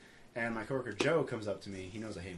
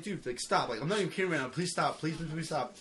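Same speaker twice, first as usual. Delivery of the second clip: raised-pitch mock begging, repeating insistently; retold pleading; 4 semitones higher than usual. Eddie chased by his coworker through the store, retold pleading. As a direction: beg him to back off, voice pitched up.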